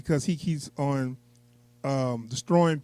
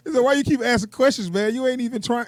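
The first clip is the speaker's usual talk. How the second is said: mocking villain; 7 semitones higher than usual. Quoting villain mocking spy.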